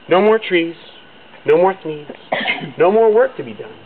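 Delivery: loud lament. Acted. Everything lost, loud lament.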